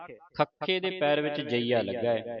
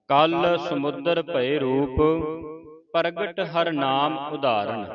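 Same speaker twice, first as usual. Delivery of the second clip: slow, measured verse recitation; slow devotional reading; scripture recitation; 2 semitones higher, slower than usual. Shown as a demonstration. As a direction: recite with long drawn-out vowels.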